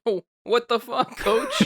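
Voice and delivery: high, laughing outrage; outraged. Pretend. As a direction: yell at the coach in disbelief. Mock protest to coach.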